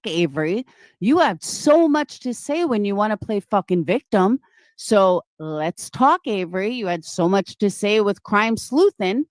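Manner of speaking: real confrontational call-out, forceful from the first words; angry challenge. Real, not acted. Streamer daring an accuser onto the panel, angry. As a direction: dare them to come and face you.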